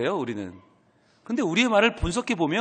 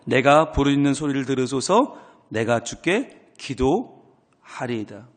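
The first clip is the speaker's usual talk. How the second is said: psalm recitation; 5 semitones lower, slower than usual. Acted. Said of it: "그러면서 뭐라고 해요?".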